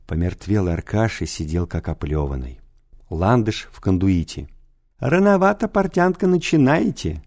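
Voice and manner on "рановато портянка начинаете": laughing director. A narrator's reading. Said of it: "смеялся директор".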